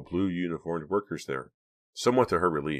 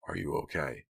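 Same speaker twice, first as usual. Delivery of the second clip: innocent concern; 7 dB quieter than usual. A narrator's reading. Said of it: "he said innocently".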